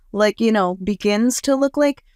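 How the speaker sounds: high, wondering disbelief; wondering aloud. Retold or imitated. Newly healed person marveling, high and wondering. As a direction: voice lifting in amazed discovery. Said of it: "And they're like".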